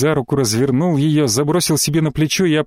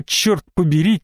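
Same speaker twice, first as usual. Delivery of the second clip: ordinary delivery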